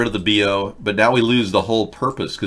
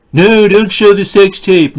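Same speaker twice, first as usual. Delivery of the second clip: much higher, loud, slow panicked begging; panicked plea; 10 semitones higher, 10 dB louder, slower than usual. Acted. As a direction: beg in a shrill panic not to release it.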